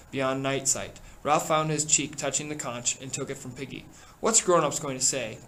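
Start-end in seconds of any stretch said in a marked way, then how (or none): 4.2-5.4 cried out. Acted. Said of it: "cried Piggy again".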